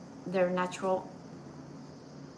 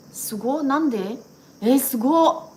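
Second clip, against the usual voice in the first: excited wow; 4 semitones higher, 10 dB louder than usual. Real, not acted. Reading surprising top fan list.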